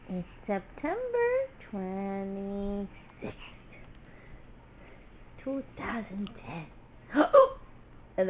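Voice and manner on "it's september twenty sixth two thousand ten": slow date announcement. Real, not acted. Stating the date for the recording.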